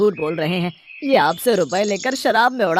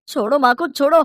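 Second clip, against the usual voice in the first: higher, rising cry to stop; urgent plea; 7 semitones higher, 4 dB louder than usual. Acted. Son shouting at father to let mother go. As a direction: shout him off your mother.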